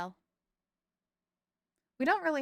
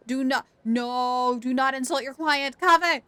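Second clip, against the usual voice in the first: mock scolding; 4 semitones higher, 5 dB louder than usual. Real, not acted. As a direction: playfully warn the character off. Scolding a game character.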